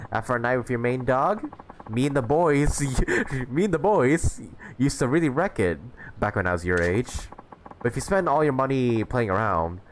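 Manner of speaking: lightly voiced jolly old-timer; a hint of an old man bragging about his youth; boastful old mentor. Voices the old stranger reminiscing.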